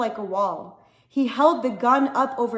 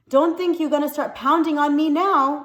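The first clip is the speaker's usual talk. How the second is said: stern warning; 5 semitones higher, 6 dB louder than usual. Acted. Woman warning the boy.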